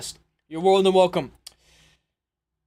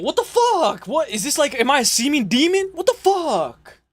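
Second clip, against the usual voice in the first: high, incredulous outburst; can't believe what he's hearing; baffled disbelief; 6 semitones higher than usual. Real, not acted. Reacting to gurgle.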